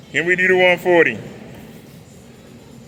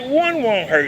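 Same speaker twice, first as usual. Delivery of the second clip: tempted inner voice; 6 semitones higher, slower than usual. Retold or imitated. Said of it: "I was like".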